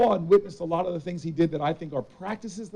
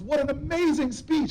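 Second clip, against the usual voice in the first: imitating his mom, higher and slow; mom gushing; 10 semitones higher than usual. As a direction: gush like a proud mother, drawn out. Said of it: "my mom comes up to me ... and goes".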